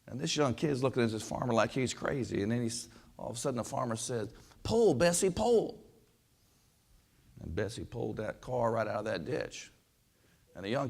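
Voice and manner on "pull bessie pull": high-pitched call to an animal; acted holler. Farmer finally calling mule Bessie by name, acted holler. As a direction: holler the command high, without full force.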